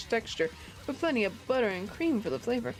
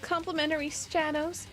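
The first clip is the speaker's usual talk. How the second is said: put-on Valley Girl voice; 2 semitones higher than usual. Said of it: "my Valley Girl voice".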